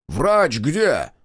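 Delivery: rising to a high, loud yell; yelling for a doctor. A narrator's reading. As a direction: shout for the medic in alarm. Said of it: "заорал Марков".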